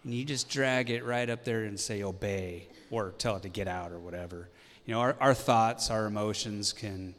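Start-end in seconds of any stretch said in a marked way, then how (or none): 0.0-4.5 imitating wife. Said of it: "your wife would say".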